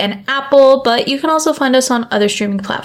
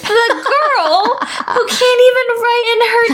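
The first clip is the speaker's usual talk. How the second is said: higher-pitched teasing through real laughter; laughing, pitched-up teasing jab; laughing tease; 12 semitones higher than usual. Real, not acted. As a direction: needle her while cracking up. Teasing friend while laughing.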